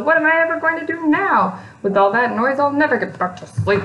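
high-pitched complaining creature; high whiny grumble. A narrator's reading. Weedle despairing at the noise, high whine. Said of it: "he grumbled".

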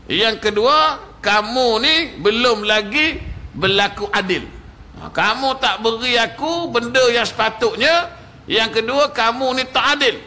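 preacher voicing an angry Bedouin's complaint; mild mock anger. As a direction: accuse him, half-acted. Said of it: "yang pertama dia marah".

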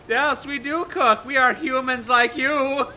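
slow, creepy robot voice. Pretend. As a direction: say it like a creepy robot pretending to be human. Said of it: "I don't like that voice".

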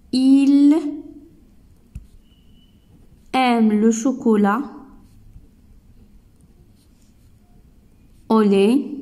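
Il aime le chocolat au lait with a slow rising end; a spaced statement made into a question by the rise; intonation question. Shown as a demonstration. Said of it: "Je laisse la phrase". (question par l'intonation, montée finale)

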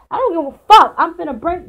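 loud angry outburst; genuinely fed up and yelling; real anger. Real, not acted. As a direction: blurt it out hot and loud. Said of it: "I'm really fucking pissed off".

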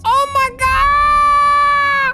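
panicked high voice. Acted. Panicked at creepy photo.

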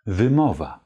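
wymowa with a clear Polish y, vy-MO-va. Shown as a demonstration. Teacher models wymowa for learners to repeat. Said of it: "Die Aussprache lautet auf Polnisch".

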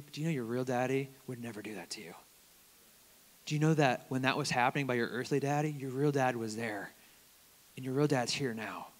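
soft, gentle reassurance; tender comfort. Shown as a demonstration. A pastor softly comforts an abused young man. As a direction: speak it softly like consoling a hurt child. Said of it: "They need to hear".

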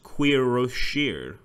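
Quiroshir said slowly, syllable by syllable; corrected pronunciation. Shown as a demonstration. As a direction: sound out Quiroshir with a "kwee" start and a "sheer" ending. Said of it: "Karasi is pronounced Quiroshir".

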